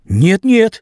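high, aggrieved pleading; pleading young man. A narrator's reading. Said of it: "сказал Вася".

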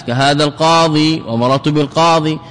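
القاضي ending in an audible long ī; final ي kept. Shown as a demonstration. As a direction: sound the final vowel of القاضي fully. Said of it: "الإثبات".

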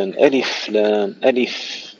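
"ألف" ending on a clean still f, no added vowel; unvoweled fa. Shown as a demonstration. Teacher correcting a reciter, "ألف" with a crisp vowelless final f. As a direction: say "ألف لام" slowly, the f of "ألف" fully stopped. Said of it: "سكن الفاء جيدا".

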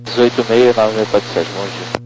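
a pilot answering from the cockpit; pilot over the radio. Real, not acted. Pilot reads back on radio.

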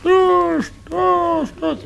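very high cry heard from downstairs; distant screaming. Acted. Nurse lets the doctor hear the patient crying from the ground floor, very high wail. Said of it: "Hören Sie es?".

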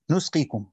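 "u" vowel after the n in نسقيكم; damma on the nun. Shown as a demonstration. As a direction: say نسقيكم as "nusqikum". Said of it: "والباقون بضمها".

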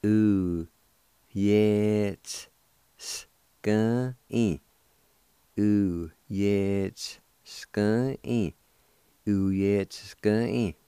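Ooh, yeah, s-, s-, gun, e sounded out piece by piece; sounds broken apart. Shown as a demonstration. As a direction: break the word into its sounds. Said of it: "like this".

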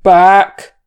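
very loud single-word roar; roared command. A narrator's reading. Wizard ordering the company back from danger, roaring. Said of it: "Gandalf roared".

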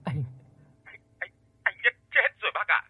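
daughter-in-law choking on sobs over the phone; choked sobbing. Acted. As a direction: gasp the news through sobs. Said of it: "lại nấc nghẹn vang lên".

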